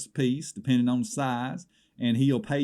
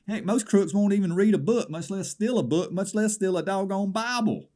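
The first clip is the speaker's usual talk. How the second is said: higher, louder incredulous huff; mock outrage; 8 semitones higher, 3 dB louder than usual. Caller to Alan, hammed-up disbelief at crooks. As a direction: climb in disbelief at the thief. Outraged aside about Bible stealing.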